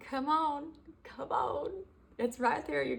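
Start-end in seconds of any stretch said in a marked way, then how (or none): 0.0-1.7 excited shout. Retold or imitated. Voicing God rallying the church, shouting. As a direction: GET EXCITED yelled high and loud. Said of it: "telling us all, like".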